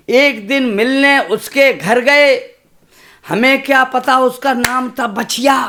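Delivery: measured, rhythmic stage recitation of a poem. Acted. Poet reciting verse to a kavi sammelan crowd, rhythmic. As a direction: recite to the audience with a steady beat.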